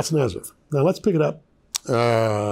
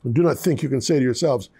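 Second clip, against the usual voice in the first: scripture reading. Acted. Pastor reading Matthew three to the congregation, solemn and raised. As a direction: read the passage out with preaching weight.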